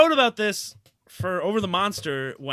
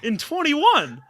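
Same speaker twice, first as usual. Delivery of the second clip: much higher, slow, laughing through it; can't believe it, half laughing; laughing disbelief; 9 semitones higher, 5 dB louder than usual. Real, not acted. Fan mocking a player's all-star selection, laughing in disbelief.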